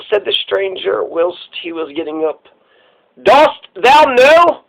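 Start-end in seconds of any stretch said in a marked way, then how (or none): 3.2-4.6 slow, high rising "Dost thou know?"; rising drawn-out question. Shown as a demonstration. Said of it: "This is Death, right?".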